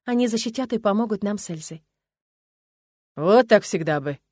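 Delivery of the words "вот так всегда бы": approving. Acted. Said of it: "с одобрением произносит Родрик".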